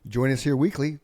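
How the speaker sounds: high, slowing host announcement; show intro voice. Pretend. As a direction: announce the show schedule like a promo.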